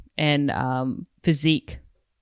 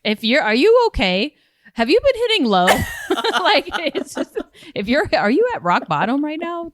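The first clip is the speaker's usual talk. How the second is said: high, laughing mock concern; 9 semitones higher than usual. Real, not acted. Comedian teasing the host about the DMV, higher and laughing. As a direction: tease her as if she hit bottom.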